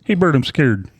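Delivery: lightly voiced scared puppet pal; a hint of a timid puppet; Ernie. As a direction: play a mildly frightened puppet roommate. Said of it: "What, Ernie?".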